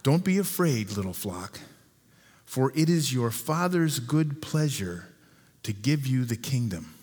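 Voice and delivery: slow it down so every word lands. Shown as a demonstration. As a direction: read it again slowly, leaning on each phrase. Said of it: "I'm gonna say it again a little bit slower".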